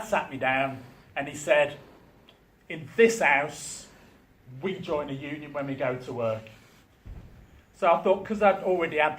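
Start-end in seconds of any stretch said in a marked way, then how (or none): 2.7-6.5 stern father. Retold or imitated. Dad's serious talk to son.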